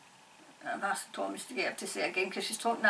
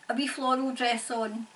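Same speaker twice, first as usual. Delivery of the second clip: usual speaking voice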